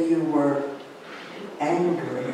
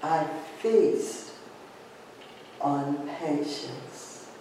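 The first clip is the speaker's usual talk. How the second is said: softer, slow echo of the affirmation; softer repeat; 2 semitones lower, 10 dB quieter, slower than usual. Shown as a demonstration. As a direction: let it fade inward, slowly. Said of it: "take a deep breath in".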